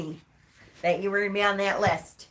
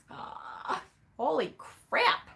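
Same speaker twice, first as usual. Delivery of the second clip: tearful; 6 semitones higher, 6 dB quieter, much slower than usual. Real, not acted. Overwhelmed, tearing up on stream.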